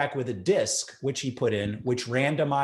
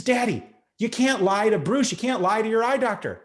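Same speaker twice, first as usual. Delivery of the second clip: a touch higher, lightly voicing the daughter; mild imitated daughter scolding; 6 semitones higher than usual. Daughter lightly voiced warning her dad not to lie. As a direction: gently scold your dad as his kid.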